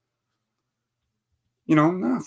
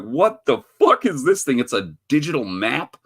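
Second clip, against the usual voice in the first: mock locals; 5 semitones higher than usual. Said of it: "They're like".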